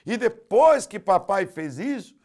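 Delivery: put-on high, loud child's complaint; boy crying out in church. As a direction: accuse your father in tears. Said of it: "o menino gritou chorando".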